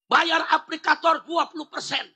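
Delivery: lightly voiced driver's protest; protesting ojol driver. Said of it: "Tukang ojol protes". (menirukan protes tukang ojol)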